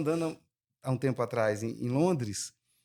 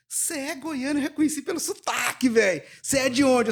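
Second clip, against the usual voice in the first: higher-pitched, thrilled questioning; excited greeting; 9 semitones higher, 4 dB louder than usual. Retold or imitated. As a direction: gush at a fellow countryman. (saudação animada e aguda)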